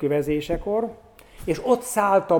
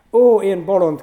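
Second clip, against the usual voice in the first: higher, louder cry of self-reproach; anguished cry; 4 semitones higher, 7 dB louder than usual. A narrator's reading. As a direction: cry out at yourself in despair. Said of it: "kiáltotta a nyomorult".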